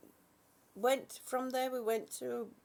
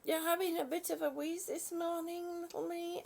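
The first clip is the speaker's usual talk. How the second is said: lightly higher cooing sympathy; 5 semitones higher than usual. Acted. Soothing a wheezy chat viewer with light cooing. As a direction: coo it like to a baby.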